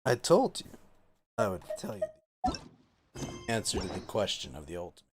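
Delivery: ominous. Acted. Ominous joke prophecy.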